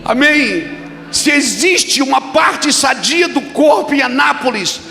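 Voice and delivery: loud, high, shouting preacher's call; fiery Pentecostal exhortation; preaching at full force. Acted. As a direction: build and hammer it to the crowd. Preaching climax.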